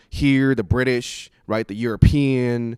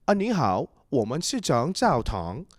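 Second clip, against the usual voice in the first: white missionary's Mandarin. Retold or imitated. Third missionary greeting him in Mandarin, imitated American accent. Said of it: "this third guy comes up".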